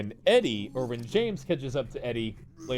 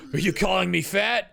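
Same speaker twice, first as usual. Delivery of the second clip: offended Eddie; 9 semitones higher, 4 dB louder than usual. Retold or imitated. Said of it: "Eddie goes".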